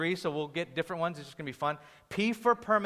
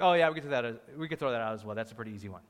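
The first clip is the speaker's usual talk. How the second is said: offhand dismissal; 6 semitones lower, much faster than usual. Acted. Acting a listener's dismissive answer.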